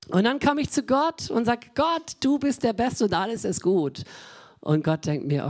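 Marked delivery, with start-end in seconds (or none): 1.7-4.0 fake cheerful prayer.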